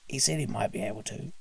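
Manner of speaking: brisk little elf. Acted. Elf answers Santa.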